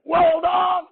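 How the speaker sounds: high, loud mock exclamation of surprise; sudden high hammed-up yelp; mock whoa. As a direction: yelp it like the car just launched.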